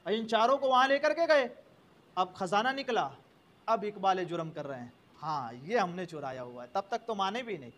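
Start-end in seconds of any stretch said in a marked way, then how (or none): 5.2-6.7 meek confession. Acted. Thieves finally confess.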